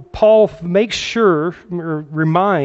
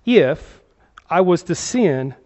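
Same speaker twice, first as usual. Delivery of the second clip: "if" set apart by a pause and stressed; slower than usual. Real, not acted. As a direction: lean firmly on "if", then pause before going on. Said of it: "I stress this word".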